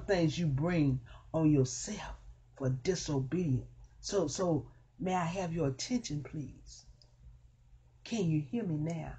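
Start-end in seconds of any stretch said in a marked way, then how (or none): 4.0-9.1 softer, hushed question; soft plea. Acted. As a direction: draw them in softly. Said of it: "my still small voice".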